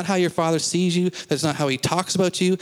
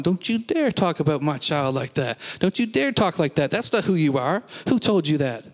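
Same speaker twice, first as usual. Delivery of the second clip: lightly acted indignant parent, pitch jumping on the warning; a touch of mama-bear scolding; protective parent. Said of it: "get a mama bear and a papa bear up going".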